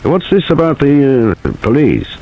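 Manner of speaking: mildly curious. A narrator's reading. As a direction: feign idle interest. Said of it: "his voice was just mildly curious".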